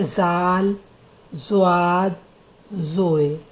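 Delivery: "जाल, ज़्वाद, ज़ोए" named slowly, each letter set apart; careful letter names. Shown as a demonstration. Teacher to students: "जाल", "ज़्वाद", "ज़ोए" spelled out slowly. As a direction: sound out "जाल", "ज़्वाद", "ज़ोए" one by one for the class. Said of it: "इनके उच्चारण में बहुत अंतर है".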